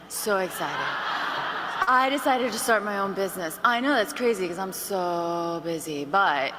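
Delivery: a lightly mocking, slow, tired drone with laughs; tired caller. Shown as a demonstration. Trainer mocking a consultant who sounds tired on calls. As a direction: sound drained and half-hearted, mocking. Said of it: "you sound like this".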